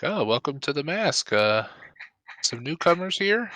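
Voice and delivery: a hint of a prim Victorian footman; stately footman greeting. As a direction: welcome the guests like a polite servant. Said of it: "he's like".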